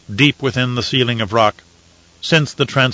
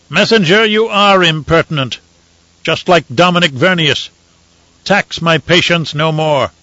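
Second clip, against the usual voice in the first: a raised, sharp imperial rebuke; stern Emperor; 5 semitones higher than usual. Acted. Emperor scolding the messenger, sternly. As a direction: put him in his place.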